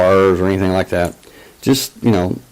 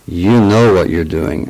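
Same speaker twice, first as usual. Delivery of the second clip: lightly imitated German accent. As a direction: accuse like a German-accented caller. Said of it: "with a German accent".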